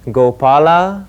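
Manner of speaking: one name at a time, slowly; staccato. Shown as a demonstration. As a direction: call it out, slow and separate. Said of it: "One sound at a time".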